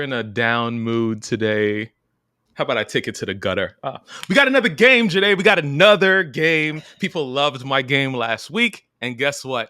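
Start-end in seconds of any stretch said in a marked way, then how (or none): 4.3-6.8 high, fast hype; excited. Real, not acted. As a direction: announce it like a hype man. Hyping new game.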